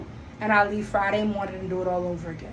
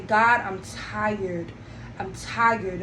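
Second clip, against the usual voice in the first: weary lament; 3 semitones lower, much slower than usual. Retold or imitated. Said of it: "I would cry in the staff lounge".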